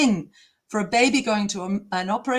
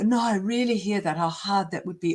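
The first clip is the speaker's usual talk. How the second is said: mock glib doctor; faster than usual. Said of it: "all glib, he started going".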